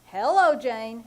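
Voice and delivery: exasperated repeat of the greeting; emphatic repeat. Shown as a demonstration. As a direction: say it again, spelling it out. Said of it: "I said".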